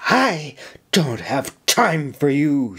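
slow, biting dismissal; cold snap. Acted. Officer coldly dismissing the young soldier before marching out. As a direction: cut him off with contempt. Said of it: "she snapped at him".

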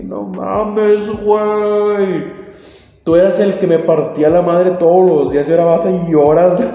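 indignant retort. Retold or imitated. Boy snapping back at his crying bully, loud indignation. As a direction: throw it back at him in outrage.

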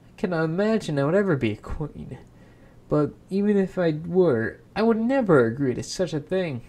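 a touch indignant, talking fast and firm; protesting girl. Acted. Girl refuses the imp's bargain.

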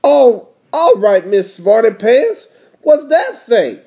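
big brother's sarcastic challenge, lightly voiced; Arthur. Big brother testing his little sister, lightly voiced challenge. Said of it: "says Arthur".

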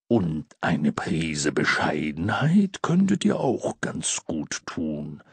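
low, slow, hushed Santa. A narrator's reading. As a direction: murmur the advice kindly. Santa adds gentle advice.

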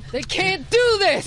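slow squeaky alarm; hammed-up panic way up; high, slow mock horror.

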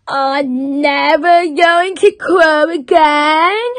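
unhappy vow in a put-on character voice; unhappy cockerel. A narrator's reading. Cockerel giving up on crowing, unhappy. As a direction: sulk it out as the cockerel. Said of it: "Cockerel was very unhappy".

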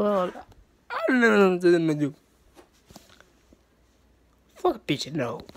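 a sulky pretend moan; mock despair. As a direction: drag it out, pretending to be hopeless. Repeat, sinking into mock despair.

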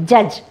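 judge with a short uh vowel, no d sound; right version. Shown as a demonstration. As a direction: model the correct judge. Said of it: "D is silent here".

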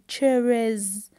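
"cherries" ending in a voiced z; final S as Z. Shown as a demonstration. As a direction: buzz the end of "cherries". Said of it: "also I pronounce the S".

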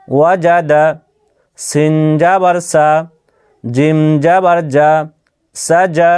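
measured Quran-primer spelling drill; teacher modelling syllables, pausing after each; spelling-out demonstration. Shown as a demonstration. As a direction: spell each letter with its vowel, then join. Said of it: "তাহলে আপনারা বানান করে দেখলেন".

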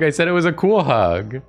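cool rising and stressed against romantic. Real, not acted. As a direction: lean on the word cool with a rise. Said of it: "I didn't say it was a romantic hug".

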